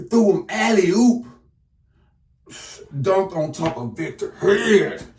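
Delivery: sudden high, loud burst of excitement; excited. Real, not acted. Recounting a big dunk.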